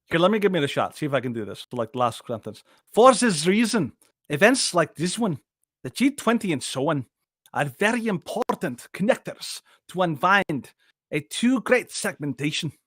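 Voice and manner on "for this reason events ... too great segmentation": a stab at a German accent that drifts toward Scottish; attempted German accent. Shown as a demonstration. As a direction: imitate Schwab's German accent, half-successfully. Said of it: "I gotta work my German accent".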